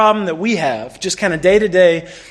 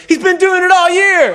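high, loud outburst from the back of the class; retold shout; 10 semitones higher, 4 dB louder than usual. Classmate Carlos exposes Leon to the teacher, loud shout. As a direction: blurt it out to expose him.

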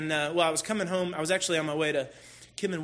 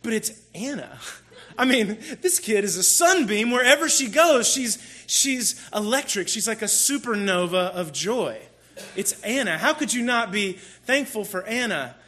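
imagined listener's objection; 4 semitones higher, 3 dB louder than usual. Retold or imitated. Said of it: "you're thinking".

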